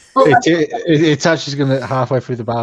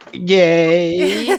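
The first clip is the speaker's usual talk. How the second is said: higher, louder cheer of Yay; 8 semitones higher, 6 dB louder than usual. Acted. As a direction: throw a happy little cheer. Character cheers.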